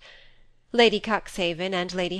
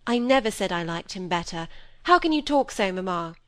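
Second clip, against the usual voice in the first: protesting daughter. Acted.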